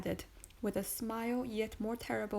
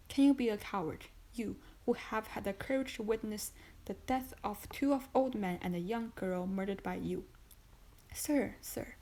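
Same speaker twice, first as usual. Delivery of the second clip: building, louder accusation; increasing excitement; 3 dB louder than usual. Acted. Magistrate accusing his wife, excitement building louder. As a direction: drive the charge home harder. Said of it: "with increasing excitement".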